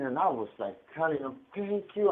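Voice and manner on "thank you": grateful relief. Retold or imitated. Retells relief after morphine shot.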